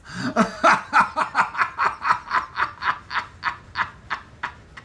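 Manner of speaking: long, high, breathy gloating laugh; mocking, airless cackle; villain laugh. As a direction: laugh at her pain like a cornered villain. Villain gloats after cruel remark.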